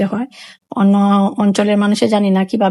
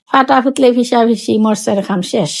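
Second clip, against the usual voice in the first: Sylheti saying. Shown as a demonstration. Vlogger shows viewers the Sylheti word, in broad Sylheti. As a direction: recite the Sylheti proverb with ফাটা, ফুতলে and ফিসা all starting on f. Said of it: "আমরা সিলেটি ভাষায় কই".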